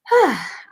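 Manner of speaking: long emotional sigh. Real, not acted. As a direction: let out a heavy breath, moved. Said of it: "I get emotional".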